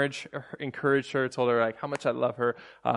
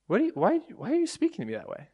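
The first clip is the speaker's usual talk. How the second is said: affronted question; 12 semitones higher, faster than usual. Retold or imitated. Wife's retold hurt reply.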